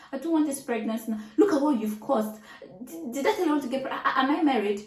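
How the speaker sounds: heated phone rant at husband; angry retort. Retold or imitated. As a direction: blame him in a rush, voice climbing.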